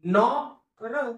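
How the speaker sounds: stretched out sound by sound; slow phonics blend. Shown as a demonstration. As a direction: draw each sound out slowly. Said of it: "ह्या ऑ ला जोडून घेतला".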